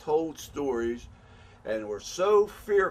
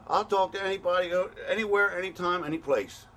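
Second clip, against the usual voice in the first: fed-up demand; 4 semitones higher than usual. Real, not acted. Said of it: "I'm tired of asking nicely".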